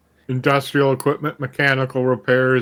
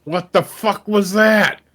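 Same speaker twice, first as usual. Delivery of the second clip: shocked, high-pitched outburst; startled; 6 semitones higher, 3 dB louder, slower than usual. Real, not acted. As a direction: blurt it out in shock. Sudden explosion surprises player.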